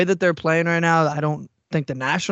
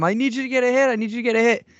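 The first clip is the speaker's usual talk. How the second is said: very high, loud screaming; 8 semitones higher than usual. Retelling a friend at a ballgame yelling at a player: imitating someone screaming. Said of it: "He was screaming at him".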